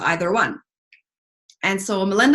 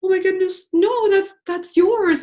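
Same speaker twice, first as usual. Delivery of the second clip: higher, stunned oh my goodness then refusing; touched disbelief, pitched up; overwhelmed protest; 9 semitones higher, slower than usual. Retold or imitated.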